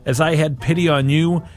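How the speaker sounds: measured scripture reading; solemn reading of scripture; gospel reading. Acted. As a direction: read the gospel to the faithful.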